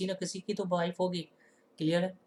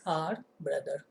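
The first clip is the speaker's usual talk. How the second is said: whisper; much slower than usual. Real, not acted. Finishing a dictated sentence.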